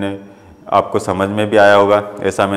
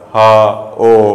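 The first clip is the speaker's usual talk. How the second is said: pained groan; 4 dB louder, much slower than usual. Shown as a demonstration. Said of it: "शोक बोधक यानी दुख होता है".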